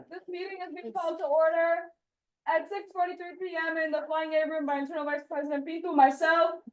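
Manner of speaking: talking while chewing a fry; mouth full. Real, not acted. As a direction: speak through a mouthful of food. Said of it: "Sorry, I'm chewing on a fry".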